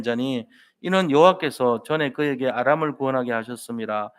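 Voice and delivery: steady, measured Bible reading with the congregation; scripture reading aloud. Acted. Pastor leading the congregation in reading Acts, measured recitation. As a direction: read the verses together in a firm, even voice.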